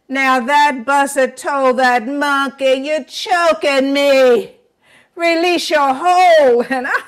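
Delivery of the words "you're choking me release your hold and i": louder, strained plea with a catch; choked pleading. Acted. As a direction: beg for release while choking. Buzzard begs while choked.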